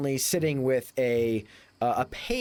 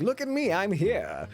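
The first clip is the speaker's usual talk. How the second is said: put-on much higher, preening young man; look-at-me swagger, lightly voiced; showing off; 7 semitones higher than usual. Simon showing off to Beulah.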